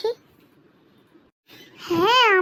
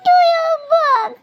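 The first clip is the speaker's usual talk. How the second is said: slow sulky whine; 4 semitones higher than usual. Acted. Sulking child.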